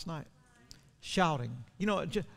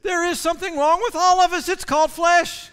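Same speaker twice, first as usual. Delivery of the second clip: much higher and louder, full-force pulpit shout; shouted preaching; 12 semitones higher, 13 dB louder than usual. Acted. Pastor crying out to the church that all flesh is flawed, full-force shout. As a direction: let it ring out over the crowd. Preaching climax over music.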